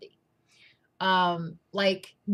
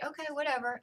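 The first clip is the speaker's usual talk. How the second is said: mock dismissive; 5 semitones higher, 7 dB quieter, faster than usual. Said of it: "he would say".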